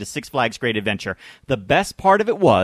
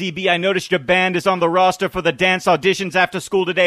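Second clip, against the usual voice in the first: stern principal voice; 3 semitones higher, 3 dB louder than usual. Retold or imitated. Scolding principal quote from the movie.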